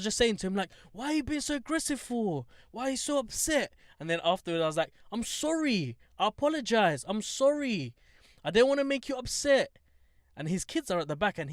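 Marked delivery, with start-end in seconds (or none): 0.9-3.7 high-pitched, retold friendly questioning; friendly concern. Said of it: "I was very friendly". 5.1-9.8 high-pitched, placating retold apology; friendly apology. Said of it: "I was very friendly".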